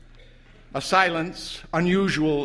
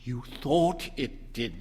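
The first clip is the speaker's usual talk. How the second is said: put-on slow, soothing old wife; calm him gently; wife soothing her husband. A narrator's reading. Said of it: "said the old lady soothingly".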